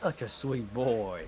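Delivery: slow, drawn-out pet praise; melting over a sweet animal; adoring coo. Real, not acted. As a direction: coo tenderly, stretching each word. Cooing over a pet photo.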